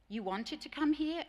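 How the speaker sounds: mock-incredulous immigrant asking the teacher; incredulous question. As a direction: ask it as if you can't believe it. Juan's incredulous question, retold.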